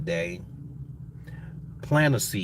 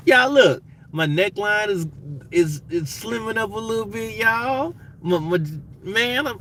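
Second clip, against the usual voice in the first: much higher, bursting with pride; excited; 11 semitones higher, 3 dB louder than usual. Real, not acted. Shows off slimmer neck excitedly.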